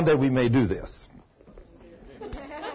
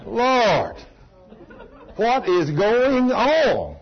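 dismayed cry; 6 semitones higher, much slower than usual. Retold or imitated. Retelling his dismayed cry.

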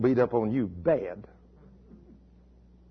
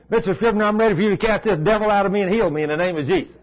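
put-on higher, quick voice of an eager six-year-old; eager little boy; 5 semitones higher, faster than usual. Preacher voicing little Cody asking for healing, raised and eager. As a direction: rush it out like an eager child.

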